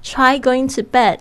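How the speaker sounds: warning tone on Try; threatening command. Shown as a demonstration. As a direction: say Try going to bed like a menacing dare. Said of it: "有点像威胁命令的那种口吻".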